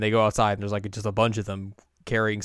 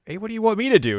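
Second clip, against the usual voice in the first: high, louder cartoon voice for the ship; squeaky ship voice; 11 semitones higher, 6 dB louder, faster than usual. Ship asks what to do, high cartoon voice. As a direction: pipe up like an eager little ship. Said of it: "And the ship was like".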